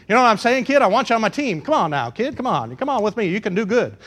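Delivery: amateur New York talent agent; lightly put-on New York hustle; New York accent. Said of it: "That's my New York accent's the best I can do".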